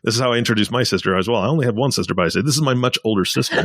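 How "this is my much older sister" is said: put-on teasing emphasis on "much older", pitched up; stress on OLDER. Host introducing his sister teasingly, stress on OLDER. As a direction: play up "much older" to needle her. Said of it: "I do the same thing".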